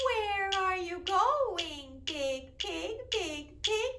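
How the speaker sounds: slow, sing-song calling out to the pig; a lightly voiced farmer asking a question; little farmer voice. Teacher voicing the farmer for the children, sing-song. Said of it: "when I'm talking like the little farmer".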